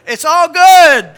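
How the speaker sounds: laughing out loud and slow. Real, not acted. Preacher laughing at his own story's punchline. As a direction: blurt it through a big laugh.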